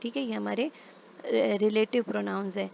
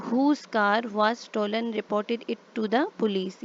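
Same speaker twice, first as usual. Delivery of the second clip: slow example reading; 3 dB louder, much slower than usual. Shown as a demonstration. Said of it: "reading the example sentence aloud".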